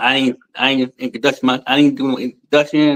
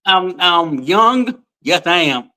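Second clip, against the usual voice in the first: playful boast; 6 semitones higher, slower than usual. Real, not acted. Playful claim to be young.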